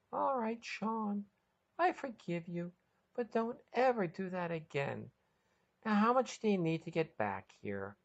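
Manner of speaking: high, gentle forgiving voice; softened. A narrator's reading. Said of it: "Patty's heart melted".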